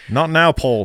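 put-on playful Shrek voice in a Scottish accent; Shrek impression. Host teases a Scottish postman listener, hammed-up Scottish Shrek accent. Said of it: "think of Shrek".

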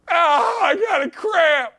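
high mock whimper about a cramp; hammed-up high wail; mock whine. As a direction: whine like a fake hurt player. Mocking cramping player.

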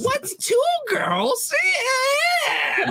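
high, shrill-pitched nagging Jewish mom; Jewish mother voice. Retold or imitated. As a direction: shriek it like a scandalized Jewish mother. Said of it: "That's the Jewish mother voice".

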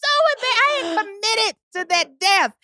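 embarrassed giggling retelling; laughing embarrassed. Real, not acted. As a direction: laugh it out while confessing.

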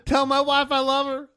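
high, loud anguished cry; dying player screaming. Pretend. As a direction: scream it out like a broken body.

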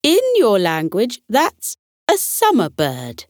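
firm, proud declaration; strong and clear. Acted. Brave butterfly introduces himself to the meeting, strong and clear. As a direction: announce your name boldly. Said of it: "he said, strong and clear".

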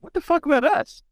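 high, indignant put-on whine for the ignored tables; mock indignant vendors. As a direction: play the miffed exhibitor left out. Left-out vendors complaining, mock quote.

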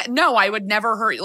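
emphatic denial. Acted. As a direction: act out an immediate, obvious no. Models the answer Jack should give.

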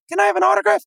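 put-on high, eager kid voice begging; squeaky fan pestering a player. Retelling kids asking the player for autographs, high eager voice.

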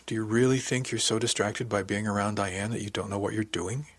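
understated kindly concern; gentle questioning. Acted. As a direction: gently probe the worry. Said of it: "she asked gently".

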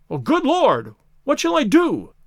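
high, anguished exclamation; distraught cry leaping high; despairing cry. A narrator's reading. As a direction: wail the question in despair. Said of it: "in an ecstasy of despair".

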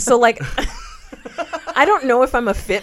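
loud laughing through words. Real, not acted. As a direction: crack up while talking.

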